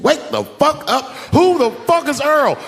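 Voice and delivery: yelling himself hoarse at his sleeping wife; angry yell. Retold or imitated. Husband yelling at his wife after reading her texts, angry shout. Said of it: "I said".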